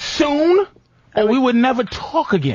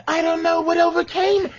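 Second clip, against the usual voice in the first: pitched-up mock innocent woman; mock dreamy woman; 6 semitones higher than usual. Mocking a woman who feigns being overcome. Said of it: "come down to your world of having to".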